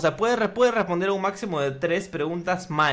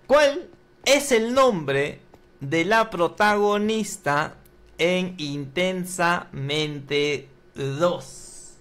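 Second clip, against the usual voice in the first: quiz show host; much slower than usual. Acted. Host putting the first question to the contestant, suspenseful presenter voice. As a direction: draw out each phrase for suspense.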